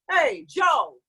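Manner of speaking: loud chest-voice call; call across the street. Shown as a demonstration. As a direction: shout to a friend across the road. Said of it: "like he's across the street".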